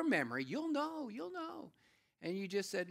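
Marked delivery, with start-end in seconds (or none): 0.4-1.7 high, drawn-out, teasing nudge; knowing reminder. Real, not acted. Preacher prodding listeners' memory, high knowing reminder.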